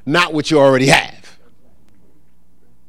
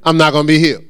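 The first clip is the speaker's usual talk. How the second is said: mock-submissive echo at usual pitch; resigned repeating; much faster than usual. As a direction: parrot the verdict without fighting it. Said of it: "you repeat what pain and sickness say".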